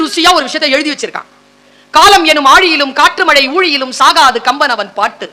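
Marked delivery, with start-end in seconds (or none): 1.9-5.3 measured poem quotation at everyday volume; restrained first reading of a verse; measured verse recital. Shown as a demonstration. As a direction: recite the verse evenly, near speaking pitch.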